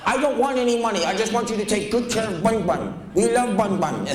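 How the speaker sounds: high-pitched pleading impersonation; crazy woman's voice. Retold or imitated. Crazy woman begs clerk to take rabbit, high mock voice. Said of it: "this woman talked like this".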